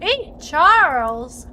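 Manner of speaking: loud, slow, high call. Pretend. Player calling to Charles, in a loud drawn-out shout. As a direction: yell across to Charles.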